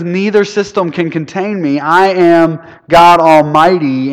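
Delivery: loud, slow on God Almighty; Jesus voiced as a booming proclamation; proclaiming as Jesus. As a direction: declare it with full authority. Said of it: "He says".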